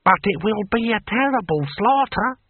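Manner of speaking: high-pitched dismay; fretful official foreseeing disaster; horrified. A narrator's reading. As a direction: protest it in a high, appalled voice. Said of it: "looked on in horror".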